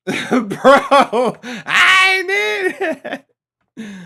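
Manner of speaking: crying with laughter; high laugh breaking into tears. Real, not acted. Still laughing, near tears.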